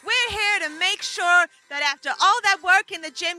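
hyped gym-bro ad voice. Pretend. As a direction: pitch it like a pumped fitness ad. Fake gym wig advert.

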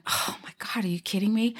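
hushed, exasperated disbelief; exasperated eye-roll. Retold or imitated. Host recalls being told to say it every time, exasperated. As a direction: groan it under your breath, eyes rolling. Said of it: "I would roll my eyes going".

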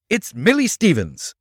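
high, loud cry of recognition; urgent exclamation. A narrator's reading. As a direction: call out the startling discovery. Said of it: "exclaimed Nick".

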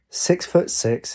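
slow, drawn-out, bored answer; disinterested. A narrator's reading. Lynx answering the curious golfer, disinterested. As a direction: answer as if it hardly matters. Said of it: "he said with disinterest".

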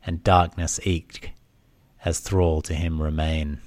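deliberate, solemn reading of an ancient oracle; oracle's pronouncement. Acted. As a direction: declaim the prophecy line by line with weighted pauses. Reads the oracle's verse answer.

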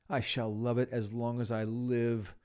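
a touch of joyful crying out; delighted cry. Acted. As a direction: declare it with fond delight. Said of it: "cried Scrooge".

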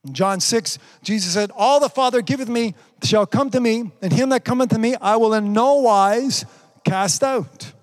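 emphatic sermon delivery, key words driven home; preaching. Acted. Preacher declaring the word of God to online congregation, emphatic preaching.

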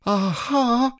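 a tiny pig trying to sound bold; Piglet's shaky aha. Acted. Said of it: "said Piglet again".

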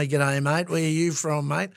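broad Australian cabbie greeting; casual Aussie mate-to-mate accent; Australian cab driver. Retold or imitated. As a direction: imitate a typical Australian taxi driver. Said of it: "Typical Australian, um, cab driver".

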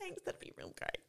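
breathless laughing sarcasm. Real, not acted. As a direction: squeak it out through laughter.

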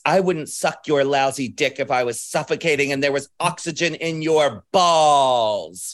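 lightly acted film-quote delivery; Taffy. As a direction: recite the insult, stretching out the last word. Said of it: "which is a Taffy line".

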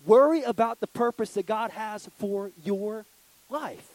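slow, loud, high emphasis; preaching emphasis. Real, not acted. The preacher drives the main point home to the youth, slow and loud. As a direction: land the main point hard. Climax line of sermon.

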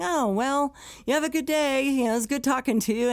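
high, quick brush-off while backing away; awkward polite exit. Retold or imitated. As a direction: wrap it up fast and nervously.

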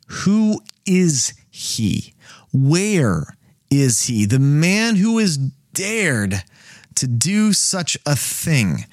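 measured, deliberate storyteller's king; slow dramatic reading. Acted. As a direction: draw out each question like a stunned king. Reading the king's question aloud.

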